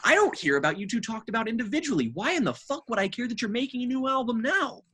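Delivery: mock rant. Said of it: "And I'm just like".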